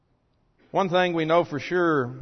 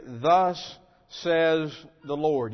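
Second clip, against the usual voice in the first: confident prophet declaring; much slower than usual. Retold or imitated. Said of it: "these prophets confidently declared".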